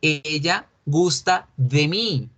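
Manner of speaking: "Ella gusta de mí" said slowly, each word clear; slow, clear classroom model; careful model sentence. Shown as a demonstration. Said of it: "Correctamente decimos es".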